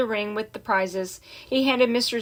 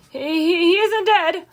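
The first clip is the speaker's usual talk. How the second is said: higher, stammering protest; panicked higher holler; 7 semitones higher, 3 dB louder than usual. A narrator's reading. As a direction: Zuckerman hollering to the announcer. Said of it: "hollered Zuckerman".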